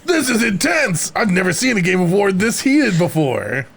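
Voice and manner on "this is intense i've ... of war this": excited onlooker. Acted. Voices onlooker in skit.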